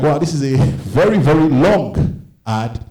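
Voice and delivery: puzzled wonder, dragging "long"; drawn-out disbelief. Acted. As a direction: stretch "very long" out slowly. Naive reaction to endless ad.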